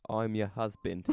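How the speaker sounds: lightly put-on British accent. Dreamer telling a British penguin he's her husband, British accent. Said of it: "but in a British accent".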